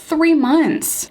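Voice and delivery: THREE hit high and firm; a pointed, indignant repeat of the number; emphatic repeat. Real, not acted. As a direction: lean hard into three in disbelief. Repeating the long wait, emphatic.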